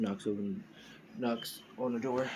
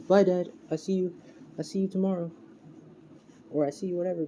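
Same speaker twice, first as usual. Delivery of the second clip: put-on high, louder little-kid voice; little Deku; 8 semitones higher, 3 dB louder, faster than usual. Little boy says bye to his dad, high child voice. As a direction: chirp it like a child leaving. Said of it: "little Deku pretty much with".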